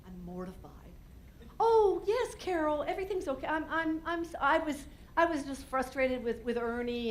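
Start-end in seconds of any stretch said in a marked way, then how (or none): 1.6-7.1 embarrassed. Retold or imitated. Embarrassed reply to neighbor.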